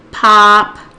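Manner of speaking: POPCORN stretched into two loud chunks with a long gap; slow, by syllable. Acted. Teacher acting the child breaking up the word, slowly. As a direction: say "popcorn" slowly, holding pop, then corn. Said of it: "the child says it slowly".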